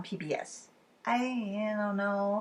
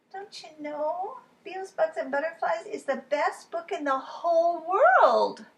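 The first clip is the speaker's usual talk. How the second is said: put-on high, earnest little girl; Lola voice; 8 semitones higher, 3 dB louder than usual. Lola telling Charlie, high and earnest. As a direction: tell him it's the best book ever.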